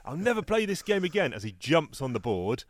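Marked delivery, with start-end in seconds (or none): 0.0-1.3 high-pitched acted tantrum; sore loser. Charlie Brown kicking the board after losing, exasperated. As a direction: wail it like a bad loser, pitched right up. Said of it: "he's not a good loser".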